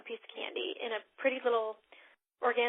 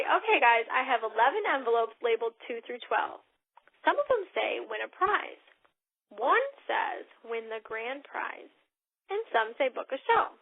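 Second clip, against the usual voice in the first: host script demo; 4 dB louder than usual. Shown as a demonstration. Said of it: "You say".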